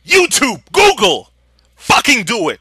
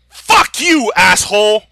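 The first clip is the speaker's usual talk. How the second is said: angry shout; 5 dB louder than usual. Real, not acted. Rant at dismissive parents.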